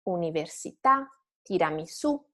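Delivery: università and tiramisù level, then stressed on the last syllable; final accent. Shown as a demonstration. Teacher shows students the wave, università, tiramisù stressed last. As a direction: land on the end of università, tiramisù. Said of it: "stay flat and then rise at the end".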